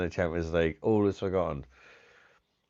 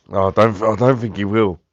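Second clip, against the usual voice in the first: loud firm denial; 3 semitones higher, 11 dB louder than usual. Shown as a demonstration. To his friend about Arteta, a loud firm no. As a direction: declare it loudly. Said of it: "repeats line loud then quiet".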